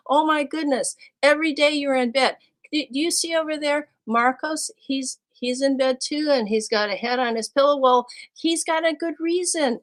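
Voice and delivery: loud, high, fast mock scolding of a sleepy student; playful exasperated shout; exasperated teacher call. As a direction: call him out of bed, half laughing.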